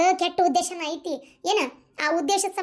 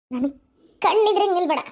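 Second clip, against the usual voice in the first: firm, angry order at usual pitch; stern dismissal; 3 dB louder than usual. Acted. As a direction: order her away with force. Mother sends daughter out of sight. (ಸಿಟ್ಟಿನ ಗಟ್ಟಿ ಆದೇಶ)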